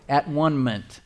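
"At one-ment" split as at, one, ment, with "one" said like the number; word broken up. Shown as a demonstration. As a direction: break "At one-ment" into its parts, clearly sounding "one". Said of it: "if you break the word up".

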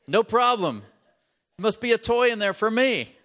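put-on loud, high excitement as a child; eager child's confidence. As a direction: exclaim it like a kid expecting a present. Voicing an eager child receiving.

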